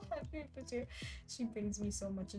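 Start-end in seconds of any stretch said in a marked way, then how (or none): 0.0-0.9 robot voice. Retold or imitated. Mimicking the robotic TTS bot.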